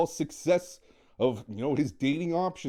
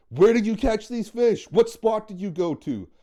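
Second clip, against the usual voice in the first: higher and louder, keen to know; eager question; 4 semitones higher, 4 dB louder than usual. Retold or imitated. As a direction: ask for the spot like you must know. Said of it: "the first question you ask".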